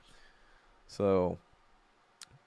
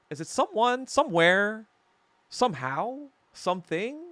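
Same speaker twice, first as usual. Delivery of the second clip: playful musing; 10 semitones higher than usual. Real, not acted. Musing over a chat question.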